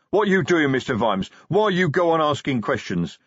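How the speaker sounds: loud, indignant troll tirade; troll defending his god, furious; angry troll rant. Acted. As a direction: lash out at the boss in broken speech. Troll's angry outburst at Vimes.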